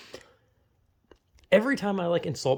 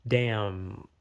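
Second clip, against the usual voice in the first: resigned inner thought; 5 semitones lower than usual. Retold or imitated. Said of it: "think to myself".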